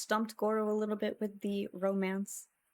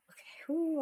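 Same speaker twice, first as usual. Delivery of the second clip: choked up; 6 semitones higher than usual. Real, not acted. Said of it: "I'm not gonna get emotional again".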